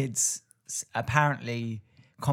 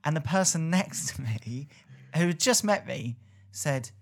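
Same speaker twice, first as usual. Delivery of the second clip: ordinary delivery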